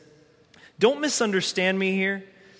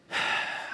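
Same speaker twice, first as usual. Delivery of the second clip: resigned sigh; 6 dB quieter than usual. Pretend. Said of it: "I guess I'll just keep waiting".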